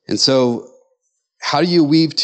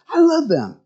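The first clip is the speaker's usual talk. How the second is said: acted adoration; 12 semitones higher than usual. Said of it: "you look at your spouse some days and you think".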